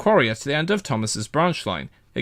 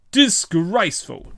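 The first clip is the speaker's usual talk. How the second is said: spluttering; 6 semitones higher, slower than usual. A narrator's reading. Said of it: "he spluttered".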